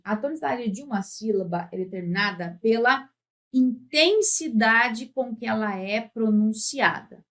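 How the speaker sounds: ordinary delivery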